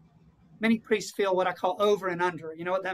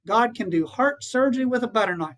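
lightly imitated Southern lady, lifted and a little louder; Southern accent; 3 semitones higher, 4 dB louder than usual. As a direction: quote her with a touch of Southern accent. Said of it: "with a great Southern accent".

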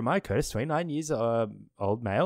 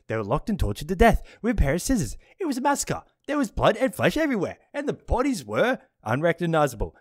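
dramatic reading; 5 semitones higher, 4 dB louder, faster than usual. Acted. Reading grisly newspaper note aloud.

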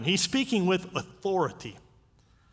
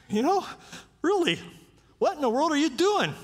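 indignant Lazarus; 9 semitones higher than usual. Acted. Lazarus complaining to Jesus after rising, high indignant whine. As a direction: whine at Jesus like someone dragged back from heaven.

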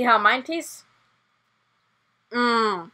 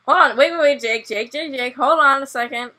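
urgent; 6 dB louder than usual. Real, not acted. Stopping friend urgently.

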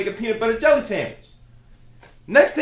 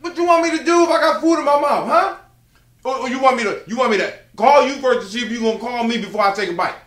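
heated arguing; 2 semitones higher than usual. Acted. Son argues, louder and higher.

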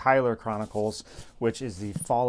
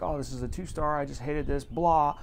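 mock disdain; 3 semitones higher than usual. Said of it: "you can go from, like".

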